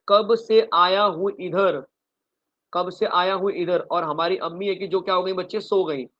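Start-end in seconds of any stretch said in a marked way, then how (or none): 0.1-1.8 "कब से आया हूँ इधर" slow, with "कब" leaned on; slow emphatic recital. Shown as a demonstration. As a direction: drill the mnemonic slowly and firmly. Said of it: "क्या बोला मैंने?". ("कब से आया हूँ इधर" धीमे, "कब" पर ज़ोर)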